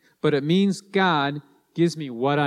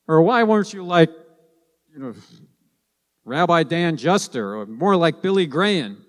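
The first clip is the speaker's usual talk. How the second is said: mock critical God; 3 semitones higher than usual. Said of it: "God is not gonna say".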